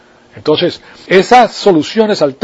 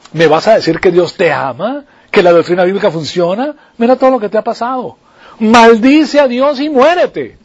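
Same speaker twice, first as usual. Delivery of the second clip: nagging wife; 4 semitones higher than usual. Retold or imitated. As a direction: berate him like a fed-up wife. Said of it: "Ahí le cayó la mujer arriba". (esposa burlona que le grita a su marido, subiendo de tono)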